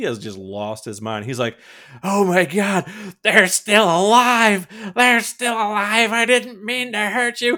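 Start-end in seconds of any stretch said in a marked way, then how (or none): 2.0-7.6 higher, louder hammed-up panic, slowing on the last words; mock freaking out. Shipwreck losing his mind before the blob, hammed-up panicked cries. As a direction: play the hero losing his mind, frantic and high. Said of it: "he is just freaking out".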